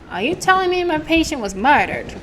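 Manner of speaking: shocked disbelief. Acted. Character reacting to news of a patient's murder, shocked. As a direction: demand an answer in shock.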